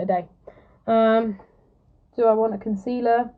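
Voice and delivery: badly faked Australian accent with rising questions; mock Australian accent. Livestreamer dithering over concealer for viewers, mock Australian accent. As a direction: put on a rough, half-convincing Australian accent. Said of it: "I'm sorry for butchering your accent if you're Australian".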